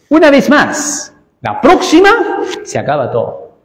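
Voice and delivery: a hint of a sorry but firm spirit; reluctant warning. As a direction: give in, but warn it's the last time. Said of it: "el espíritu apenado".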